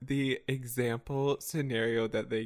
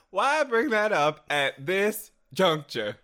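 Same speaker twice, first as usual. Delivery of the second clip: slow, loud, higher melodramatic question; theatrical reproach; 6 semitones higher, 5 dB louder, slower than usual. Acted. Rehearsing a reversal, slow and melodramatic. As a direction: spread it out with grand mock offence. Dramatic retake of reversal line.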